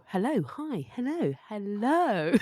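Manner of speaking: "hello" said several ways, the last two slow and drawn out; varied hellos. Shown as a demonstration. Host demoing greeting options, slow varied hellos. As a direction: try out different "hello"s, slowing right down. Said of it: "many ways in which you could say hello".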